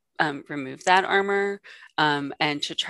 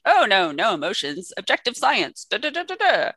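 mock academic, climbing ever higher; detached academic voice; 4 semitones higher than usual. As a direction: lightly parody a cold scientist. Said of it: "I'm like".

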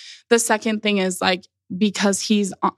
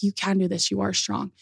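soft encouragement; 5 dB quieter than usual. Retold or imitated. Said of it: "Just a small whisper in my ear".

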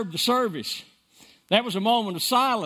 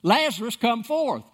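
cried out; 5 semitones higher than usual. Retold or imitated. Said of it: "he cried".

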